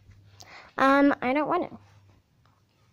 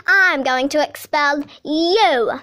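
slow threat; 5 dB louder, slower than usual. Acted. Bully principal threatening.

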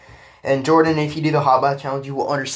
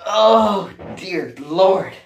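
gasping cry; 6 semitones higher, 6 dB louder, much slower than usual. Real, not acted. Reacting to freezing water.

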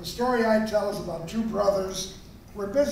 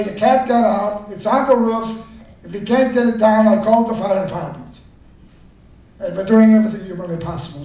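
scolding lecture; 5 dB louder than usual. Acted. Brother lectures how to break news.

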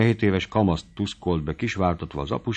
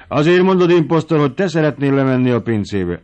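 much higher, loud teasing jab; loud mock accusation; 6 semitones higher, 6 dB louder than usual. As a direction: call the servant's bluff. Master teasing the servant loudly.

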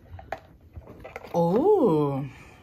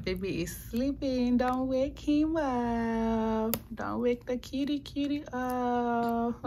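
whispering over a crib; 4 semitones higher, 7 dB quieter, slower than usual. Real, not acted. Baby asleep, don't wake him.

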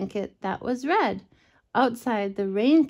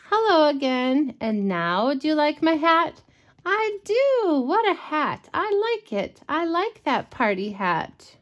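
character voice; 5 semitones higher than usual. Acted. Parent voices book characters.

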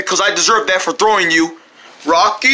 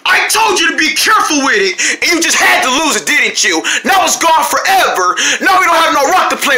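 angry yelling; 4 semitones higher than usual. Acted. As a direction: tell him off for losing the rock. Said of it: "I didn't mean to yell at you".

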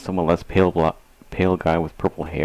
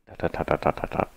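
whispered; 2 semitones lower, 3 dB quieter than usual. Acted. Reading ellipsis in hushed voice.

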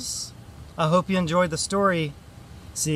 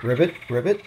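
low little "ribbit" with a lift; frog croak; 3 semitones lower, much faster than usual. Pretend. Frog in picture book.

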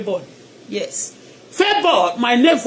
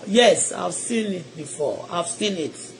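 quiet aside; 7 semitones lower, 9 dB quieter, slower than usual. Real, not acted. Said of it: "quiet aside after prayer".

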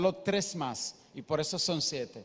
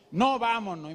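mock child yell; 4 semitones higher than usual.

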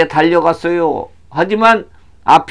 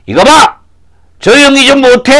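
angry scolding; 9 semitones higher, 4 dB louder than usual. Acted. Townsman silencing the blind man, angry scolding. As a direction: pitch jumping up in irritation.

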